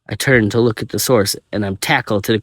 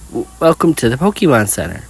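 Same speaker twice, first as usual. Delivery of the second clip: glitching repeat; 4 semitones higher than usual. Acted. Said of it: "her just repeating".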